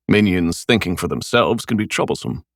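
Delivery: sympathetic. Acted. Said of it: "I said sympathetically".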